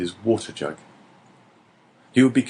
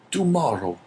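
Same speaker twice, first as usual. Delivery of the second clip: sincere promise; 4 semitones higher than usual. A narrator's reading. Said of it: "uttered with an accent ... sincerity".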